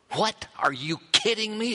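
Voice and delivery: high, incredulous mock retort; mock exasperation. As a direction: play the fed-up listener, half joking. Imagined exasperated retort from Mary.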